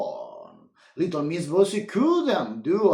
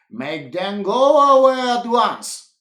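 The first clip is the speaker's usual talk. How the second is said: crying out; 5 semitones higher, 6 dB louder than usual. A narrator's reading. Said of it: "cried little Miss Bossy".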